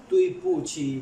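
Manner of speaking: तुई पूछी with a high pitch jump on तुई; Chinese pronunciation demo. Shown as a demonstration. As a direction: say तुई पूछी clearly, sharply up on तुई. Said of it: "जैसे लिखा हुआ है ना ये". (चीनी उच्चारण, तुई पर ऊँचा सुर)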